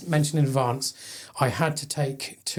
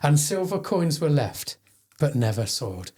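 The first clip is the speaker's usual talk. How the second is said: poem reading; 2 semitones higher than usual. Acted. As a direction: read it like a solemn verse.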